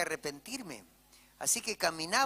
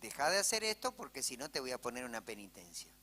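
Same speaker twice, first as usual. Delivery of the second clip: calm correction; 4 semitones lower, 3 dB quieter than usual. Pretend. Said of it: "hablarle y decirle".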